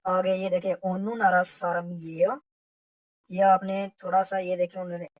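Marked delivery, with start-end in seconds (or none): 0.7-2.4 "नारा" lifted, voice rising to the end; rising question. Shown as a demonstration. Teacher demonstrating a Korean question with a rising tune. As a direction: ask "ओनु नारा सारम ये हो" with a rising lilt. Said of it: "with the rising intonation".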